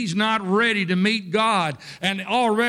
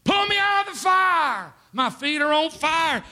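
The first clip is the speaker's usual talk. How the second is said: much higher, pleading shout; retold desperate plea; 11 semitones higher, 3 dB louder than usual. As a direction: beg to be pulled from the flames. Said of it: "He said".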